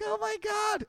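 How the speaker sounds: very high mock-tearful squeal; happy crying. Melissa relieved it wasn't her, high tearful squeal. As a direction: imitate her overcome with relief. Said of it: "so happy she started crying".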